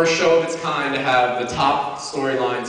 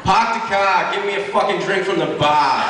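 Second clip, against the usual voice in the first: put-on Boston accent; 5 semitones higher than usual. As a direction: shout it in a thick Boston accent. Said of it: "your best Boston accent".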